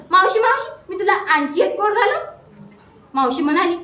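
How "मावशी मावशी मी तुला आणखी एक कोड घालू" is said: wheedling. Acted. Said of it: "मी लाडात येऊन म्हणालो".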